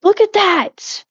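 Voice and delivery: high, slow, amazed voice with a laugh; thrilled at how clean it is; excited squeal. Real, not acted. Showing chat the clean floor, excited and high.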